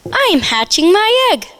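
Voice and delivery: hushed whisper of the hen. Acted. Hen whispers to Pig while hatching, hushed. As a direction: whisper like a hen minding her egg.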